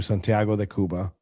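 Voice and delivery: Santiago said the gringo way; anglicized Spanish place name; American accent Spanish. Real, not acted. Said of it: "damn, I said that like a gringo".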